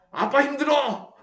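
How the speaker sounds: put-on high, whiny child's plea; whining child. Tired kids begging their dad, high whining. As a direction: beg like a tired kid who wants carrying. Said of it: "막 소리 지르고".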